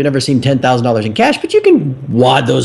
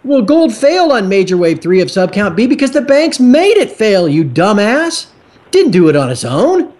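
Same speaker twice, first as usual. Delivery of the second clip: higher, heated retort with scorn; angry rebuttal; 5 semitones higher than usual. Real, not acted. Host rebuts Elliott wave shills to his listeners, scornful and heated. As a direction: fire it back at the chart shills, fed up.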